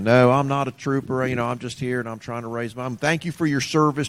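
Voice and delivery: lightly put-on Southern Florida panhandle accent; a hint of an older Southern boy from the panhandle; mild Southern accent, imitating a telemarketer; Southern drawl. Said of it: "they talk like this here".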